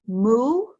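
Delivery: "Mu" as one short, separate syllable; staccato. Shown as a demonstration. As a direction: clip "Mu" off on its own, cleanly. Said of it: "Do it syllable by syllable".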